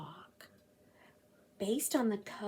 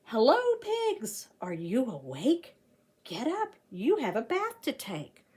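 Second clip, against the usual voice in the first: put-on reading to children; 3 dB louder than usual. A narrator's reading. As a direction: wake the pigs up cheerfully. Reads rhyming picture book aloud.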